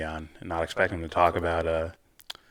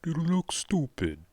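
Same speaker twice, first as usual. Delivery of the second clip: mocking tease; 10 semitones higher, much slower than usual. Real, not acted. Teasing cohost after failed accent.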